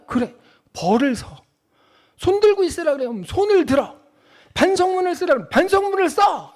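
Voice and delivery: lightly voiced stern wife; firm mother. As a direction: tell the child to just take the punishment. Wife firmly telling child.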